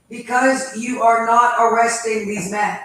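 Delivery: loud, heated insistence; shaking with anger. Real, not acted. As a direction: push back hard, furious. Real angry confrontation at home.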